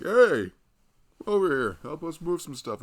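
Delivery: hammed-up coworkers yelling for help; coworkers calling out. Husband retelling how coworkers called him over, mock shout. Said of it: "so they're like".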